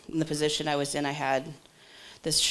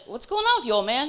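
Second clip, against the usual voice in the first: playful greeting; 8 semitones higher, 4 dB louder than usual. Retold or imitated. Acting out teasing greeting to old man.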